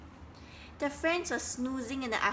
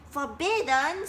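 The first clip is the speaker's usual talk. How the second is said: higher, louder indignant question; angry; 5 semitones higher, 5 dB louder than usual. Acted. Frogs angrily questioning Duck's rule. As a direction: challenge the word. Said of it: "said the frogs angrily".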